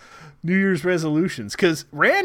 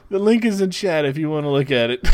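stifled giggles. Real, not acted. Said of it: "a tear in my eye from trying not to laugh".

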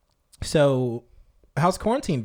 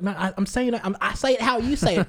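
higher-pitched, insistent imitation; Shelly; 6 semitones higher than usual. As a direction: protest that you say it normally. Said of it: "she's like".

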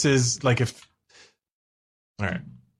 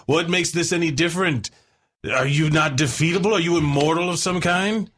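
lightly voiced know-it-all, pitched up; a hint of the high brainy voice; Lion; 3 semitones higher than usual. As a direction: question the monster as a newly minted genius. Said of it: "Lion with his newfound thirty intelligence goes".

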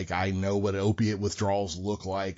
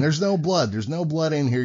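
imitated nurse; 6 semitones higher than usual. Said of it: "And the nurse is going".

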